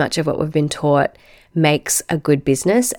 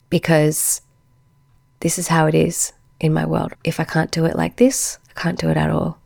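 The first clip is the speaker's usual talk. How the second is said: hoarse, croaking voice; croaky frog voice. Real, not acted. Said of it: "my croaky frog nana voice".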